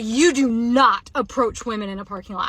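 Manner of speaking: firm scolding, re-enacted; mild re-enacted yell; retold yelling. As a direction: retell a yelled warning with emphatic stress. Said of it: "Like, yelling it".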